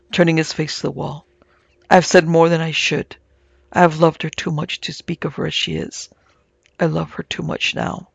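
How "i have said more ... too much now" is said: ordinary delivery, nothing marked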